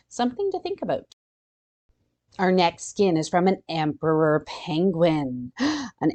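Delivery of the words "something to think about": playful sing-song. Real, not acted. Playful musing.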